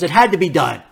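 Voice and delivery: the comedian defending strangling the puppet, unbothered; deadpan Larry. Retold or imitated. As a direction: say it like a man with no regrets. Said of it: "And he goes".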